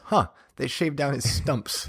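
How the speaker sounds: slow, soft, puzzled mock musing. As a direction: drawl it out like a puzzled fan. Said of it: "your second thought was".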